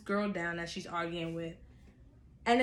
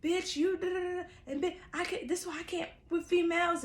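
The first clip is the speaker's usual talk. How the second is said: imitating Rose on phone; 8 semitones higher, 4 dB quieter, faster than usual. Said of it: "she's saying things like".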